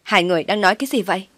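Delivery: fast, demanding question; mild shouted question. Acted. Daughter bursting in on mother and sister, mock shout. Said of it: "Tôi không nhịn nổi hét lên hỏi".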